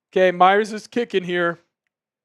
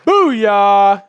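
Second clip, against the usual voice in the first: a real, louder triumphant whoop; booyah cheer; 6 dB louder than usual. Real, not acted. Streamer cheering the touchdown for his viewers, loud whoop. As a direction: let out a happy cheer. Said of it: "I'm just excited".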